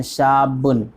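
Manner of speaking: شابن with the b doubled. Shown as a demonstration. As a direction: hold the b in شابن before releasing it. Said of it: "با پر تشدید ہے".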